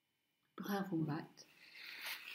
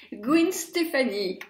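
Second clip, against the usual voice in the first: A singer's name said slowly the American way, first name with a long ee; American pronunciation; slower than usual. Retold or imitated. Vlogger imitating how Americans say the name, American accent. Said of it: "comme vont faire les Américaines".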